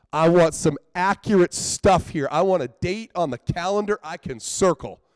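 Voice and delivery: impatient pleading rant; frustrated demand. Real, not acted. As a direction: hammer each want like a demand.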